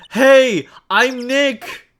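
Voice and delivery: loud, high shouted introduction. Acted. Nick shouting at a sound-triggered camera, loud. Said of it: "not saying it loud enough".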